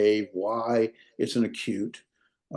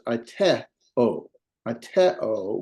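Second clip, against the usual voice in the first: AITEO broken up, weight on TE; stress on middle syllable; much slower than usual. Shown as a demonstration. Teacher demonstrating the accent for students, middle syllable stressed. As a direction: lean on the TE in "aiteo". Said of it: "We're just gonna put a stress there".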